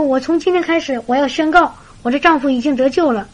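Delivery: mildly acted happy determination; very joyful. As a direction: proclaim it gladly, with new resolve. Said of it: "这个姊妹非常喜乐".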